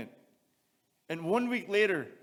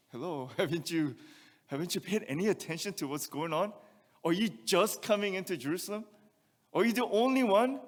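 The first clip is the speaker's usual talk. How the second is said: mock-incredulous, rising to a louder peak; sarcastic disbelief; 3 semitones higher, 4 dB louder than usual. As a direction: needle the stranger with sarcasm. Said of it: "There's a little bit of a sarcasm there".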